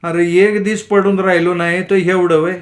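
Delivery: sick son pleads with fighting parents, near tears; tearful voice. Acted. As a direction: complain on the verge of crying. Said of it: "Raghu रडक्या सुरात म्हणाला".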